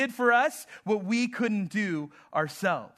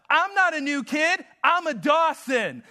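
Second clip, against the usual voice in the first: put-on higher, a bit louder kid's shout; mock yell; 5 semitones higher, 4 dB louder than usual. Son yelling back at a kid on the playground, mock yell. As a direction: call it out across the playground. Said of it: "And he yells out".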